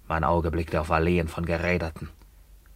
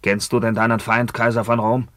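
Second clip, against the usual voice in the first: defiant challenge; 4 semitones higher, 4 dB louder than usual. Acted. Emilian challenges the emperor.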